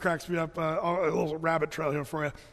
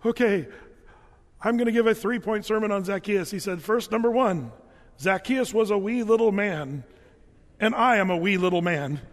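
loud, raised preaching voice; nervous student preaching; 3 semitones higher, 5 dB louder than usual. Retold or imitated. Nervous student shouting his sermon to the class. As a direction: belt it out like a nervous young preacher. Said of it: "and he says".

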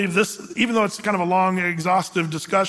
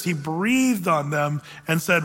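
breathed stretched and leaned on, slow; emphasis on breathed; 2 semitones lower, slower than usual. Real, not acted. Pastor stressing breathed to congregation, slow. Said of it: "Emphasis on the word breathe".

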